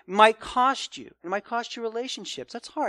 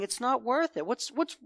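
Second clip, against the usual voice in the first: exasperated venting that swells louder toward the end; frustrated complaint; 3 semitones higher, 8 dB louder than usual. Retold or imitated. Preacher voicing a weary churchgoer, exasperated, growing louder. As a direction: let a worn-out churchgoer vent about why they bother at all. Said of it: "But basically you're saying".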